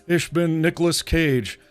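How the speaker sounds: lightly voiced actor reading stiff German; Nicolas Cage in German. Streamer imagines Cage dubbing himself in German, half-hearted impression. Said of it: "I can't do a Nick Cage impression".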